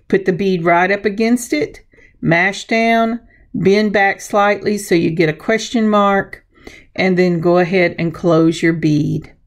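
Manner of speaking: rough, gravelly voice from the weather; a touch of hoarse gravel throughout. Real, not acted. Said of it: "my voice sounds kind of gravelly today".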